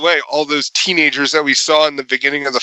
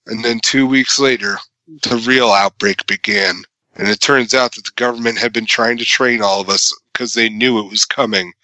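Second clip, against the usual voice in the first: lower, grave trailer-narrator voice; serious movie narration; 4 semitones lower than usual. Retold or imitated. Podcaster mocking the hero's epic voiceover, grave narrator tone. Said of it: "serious narration from main hero guys".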